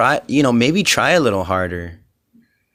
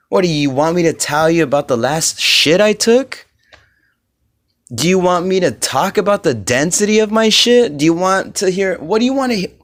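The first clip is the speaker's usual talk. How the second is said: higher, mocking rhetorical questions; sarcastic angry rant; 4 semitones higher than usual. Real, not acted. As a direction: jab at them with sarcasm.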